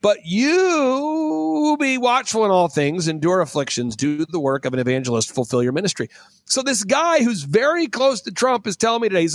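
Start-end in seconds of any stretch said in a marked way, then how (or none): 0.0-6.1 theatrical pulpit-style recitation; scripture reading. Acted. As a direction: declaim the verses, punching and stretching key words. Reads scripture aloud with preaching flourishes.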